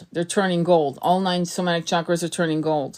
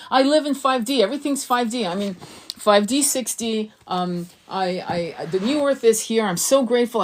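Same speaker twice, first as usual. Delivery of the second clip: put-on playful little kid; 2 semitones higher than usual. Teacher pretending to be a happy child playing make-believe. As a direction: play it like a kid playing dress-up. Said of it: "Just, just play little kid games. Be a little girl".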